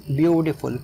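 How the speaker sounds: "ब्यूटीफुल" opening on a stressed "ब्यू"; stress on first syllable. Shown as a demonstration. Teacher repeats "ब्यूटीफुल", stress at the start on "ब्यू". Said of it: "starting में stress है".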